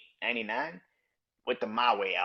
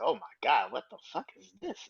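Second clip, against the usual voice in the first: high, incredulous mock outrage; mocking shocked fans; 4 semitones higher than usual. Fan reacting to leaked single, high shocked disbelief. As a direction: play the baffled fan hearing the new single. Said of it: "and everybody said".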